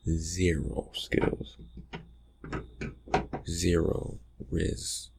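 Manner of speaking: very slow, deliberate verdict; drawn-out teasing. Acted. Teasing a friend who failed at flirting, slow and drawn-out. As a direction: stretch each word out to rub it in.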